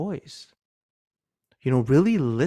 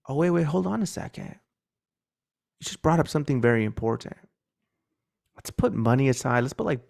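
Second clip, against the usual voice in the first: caring curious tone. Shown as a demonstration. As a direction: ask as someone who truly cares. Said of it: "No, it's like this".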